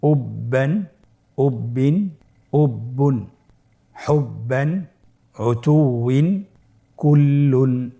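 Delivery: each word read out carefully; reading aloud. Shown as a demonstration. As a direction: pronounce each word clearly, holding the doubled letters. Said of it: "স্ক্রিনে লেখা হচ্ছে".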